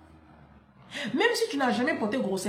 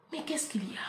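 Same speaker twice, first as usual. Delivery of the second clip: whisper; 3 semitones higher, 9 dB quieter, faster than usual. Retold or imitated.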